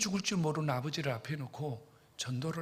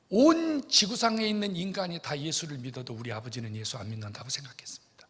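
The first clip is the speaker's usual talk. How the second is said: normal talking voice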